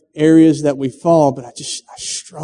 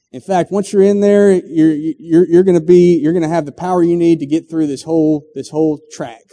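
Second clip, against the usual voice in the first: lightly voiced speaker giving orders; 3 dB louder than usual. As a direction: coach the climber upward with rising energy. The speaker instructs climber, rising.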